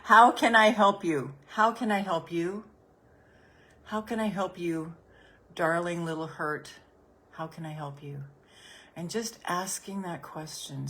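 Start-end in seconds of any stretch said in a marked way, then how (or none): 0.0-2.6 How can I help you said higher and louder; an eager, louder How can I help you; louder, higher ask. Shown as a demonstration. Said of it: "And now say to this discomfort". 3.9-8.2 compassionate. Shown as a demonstration. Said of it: "do you hear the tone in my voice? It's compassion".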